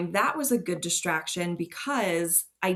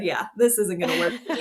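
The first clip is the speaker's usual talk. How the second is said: laughing quote; 5 dB louder, faster than usual. Retold or imitated.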